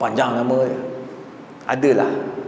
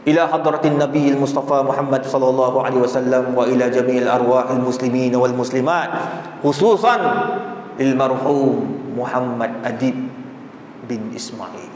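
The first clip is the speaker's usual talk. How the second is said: tahlil recitation; 9 semitones lower than usual. Shown as a demonstration. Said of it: "Orang baca".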